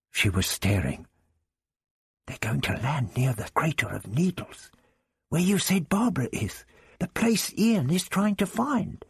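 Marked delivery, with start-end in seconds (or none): 2.3-9.0 put-on young girl voice. Young girl realises excitedly.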